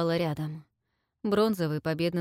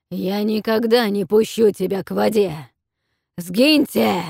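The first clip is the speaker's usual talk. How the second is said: roaring dragon; 3 semitones higher, 9 dB louder than usual. A narrator's reading. Dragon roars at the kneeling captives, loud roar. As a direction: roar it like a beast. Dragon refuses and dismisses them.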